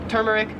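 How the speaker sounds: first "turmeric" as "TER-meric", the next as "TOO-meric"; contrasted pronunciations. Shown as a demonstration. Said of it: "as turmeric".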